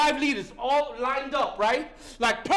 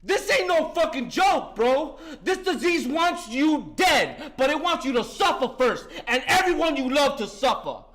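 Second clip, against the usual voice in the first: fiery recovery sermon; 3 semitones higher than usual. Real, not acted. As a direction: hammer the message home like a preacher. Preaches to recovery group.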